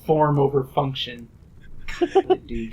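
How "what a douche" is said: breathy whispered jab. Real, not acted. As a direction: hiss it under your breath. Whispered insult aside.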